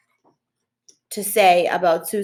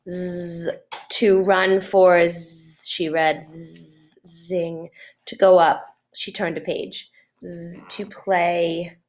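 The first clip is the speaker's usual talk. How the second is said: mental buzz; much slower than usual. Acted. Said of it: "making a sort of mental buzz".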